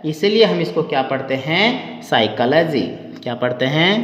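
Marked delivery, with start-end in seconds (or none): 2.0-2.8 साइकोलॉजी with silent p, sy-ko-lo-jee; right way, psychology. Shown as a demonstration. Teacher models साइकोलॉजी, p left silent. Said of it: "पी silent रहता है".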